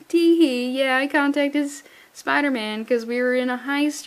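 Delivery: put-on cutesy teen voice; giggly daughter act. Voicing the flippant daughter.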